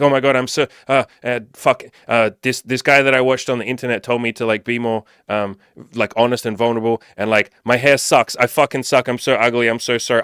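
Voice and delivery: mock panicked apology, tripping over words; flustered panic. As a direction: stammer it out like a nervous wreck. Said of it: "say that in a clumsy way and you're like".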